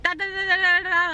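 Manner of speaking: put-on high, bouncy baby babble. Mother imitates her hyper toddler, high babble. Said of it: "she was just kind of like".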